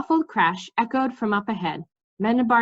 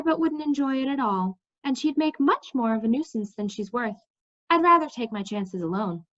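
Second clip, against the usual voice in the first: a touch higher, matter-of-fact and sure; lightly voiced determined young woman; 4 semitones higher than usual. Cimmerian to Mendembar, lightly voiced and determined. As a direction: brush off the danger lightly.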